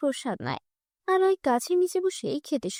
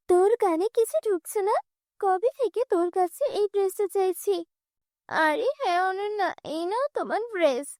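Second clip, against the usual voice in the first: higher, complaining stepsister yelling for her mother; spoiled girl scolding; 5 semitones higher than usual. Acted. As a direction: whine and accuse.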